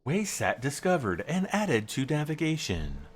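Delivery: robotic computer voice reading a notice; flat, even synthesizer voice; old speech synthesizer. Pretend. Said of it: "That's my computer voice".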